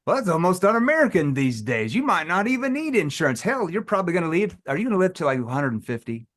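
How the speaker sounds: joking playful banter; joking around. Retold or imitated. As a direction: kid the prospect playfully. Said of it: "He wasn't joking around".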